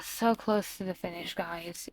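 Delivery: hushed whisper to the viewers; breathless excited whisper. Real, not acted. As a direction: lean in and whisper the news. Excited secret told to viewers.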